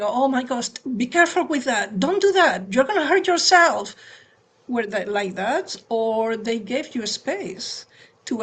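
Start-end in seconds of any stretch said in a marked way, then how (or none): 0.0-3.9 anxious parent. Retold or imitated. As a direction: warn the child, rising into alarm. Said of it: "the kind of parents that they were really thinking".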